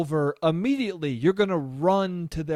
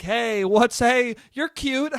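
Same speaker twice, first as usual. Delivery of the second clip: mock pushy flirt; 5 semitones higher, 4 dB louder, slower than usual. Mock bar pounce.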